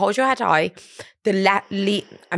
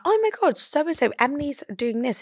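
mock gushing boyfriend; 6 semitones higher than usual. Boyfriend voiced gushing to girlfriend.

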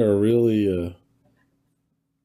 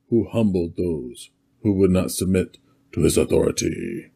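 Mesopotamian dictator voice. Pretend. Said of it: "read ... in your best Mesopotamian dictator voice".

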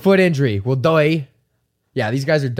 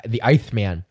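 Mike Tyson impression; 4 semitones lower than usual. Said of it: "I said that like Mike Tyson".

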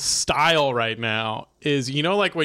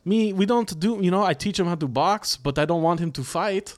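put-on Russian accent; 4 semitones higher than usual. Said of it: "so cliche, Rush".

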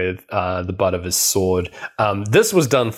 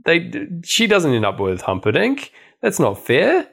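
mock whiny kid protesting, higher; indignant grandson; 6 semitones higher than usual. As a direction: play the upset boy cutting in, hammed-up. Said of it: "the grandson being like".

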